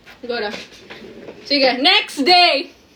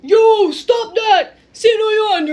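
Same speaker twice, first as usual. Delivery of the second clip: slow, loud stop-it shout; stern shout; 5 semitones higher, 6 dB louder, much slower than usual. Acted. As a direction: shout the kids apart, drawn out. Principal breaks up fight.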